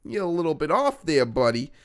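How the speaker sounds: 1 teasing. Retold or imitated. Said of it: "I said".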